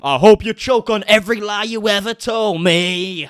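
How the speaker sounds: drawn-out mock-dramatic lyric; mock declaiming. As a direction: stand up and proclaim it like bad poetry. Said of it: "stand up and be like".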